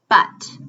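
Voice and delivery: but said alone, crisp final t; first syllable of butterfly, on its own; isolated syllable. Shown as a demonstration. Teacher presenting just the first syllable, isolated. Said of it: "let's look at just the first syllable".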